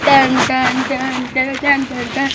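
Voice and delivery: slow, repeated sound imitation; imitated "tun tun". Boy daring another to touch, slow imitated noise. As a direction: chant the noise evenly and slowly.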